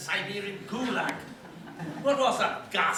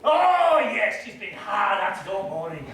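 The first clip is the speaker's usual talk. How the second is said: loud cover-up; 6 dB louder than usual. Acted.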